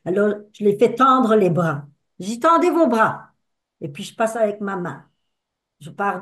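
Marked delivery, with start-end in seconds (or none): 2.4-3.3 ordre de grand-mère. Retold or imitated. Grand-mère ordonne aux petits-enfants.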